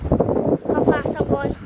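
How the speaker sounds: breathy loud shout into wind; excited shout. Real, not acted. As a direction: yell it over the rushing speed. Speeding downhill on bicycle.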